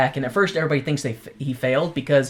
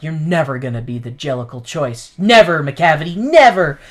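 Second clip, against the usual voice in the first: defiant build to a shout; 5 dB louder than usual. Retold or imitated. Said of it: "that's when she's like".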